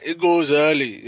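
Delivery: mock Manchester accent, drawn out. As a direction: lightly imitate a Mancunian speaker. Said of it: "in his old Manchester accent".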